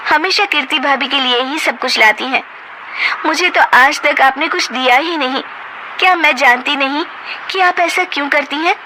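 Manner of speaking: high, accusing, bitter retort; daughter-in-law confronting mother-in-law, angry; angry confrontation. Acted. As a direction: throw it back at her mother-in-law.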